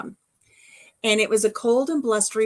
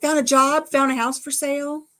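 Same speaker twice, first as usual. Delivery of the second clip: high, excited mock-mom voice, raised well up; eager mother calling them out; mock-excited mother urging a move; imitating her mom; 8 semitones higher, 6 dB louder than usual. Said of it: "And she says".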